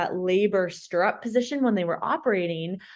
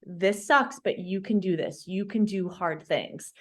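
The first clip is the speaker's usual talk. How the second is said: understated self-coaching, trailing softer; retold self-talk; 3 dB quieter than usual. Patient retelling her self-talk in hospital, quietly encouraging. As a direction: coach yourself steadily through pain. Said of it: "leaning into that self-talk".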